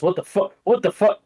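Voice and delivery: baffled, rising disbelief; shocked guard. Acted. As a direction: react as if bullets do nothing. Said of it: "He goes".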